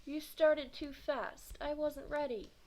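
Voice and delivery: loud, high, slow complaint; sore loser. Acted. Mars blames the starter for his loss, loud and angry. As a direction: accuse the starter, fuming.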